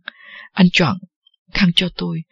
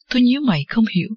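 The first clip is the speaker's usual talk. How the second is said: ordinary delivery, nothing marked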